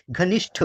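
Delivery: घनिष्ठ said clearly, ष्ठ with a crisp retroflex ending; correct pronunciation. Shown as a demonstration. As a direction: spell out घनिष्ठ carefully, sound by sound. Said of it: "हम बोलते हैं ना". (घनिष्ठ को साफ़ और शुद्ध उच्चारण से बोलें)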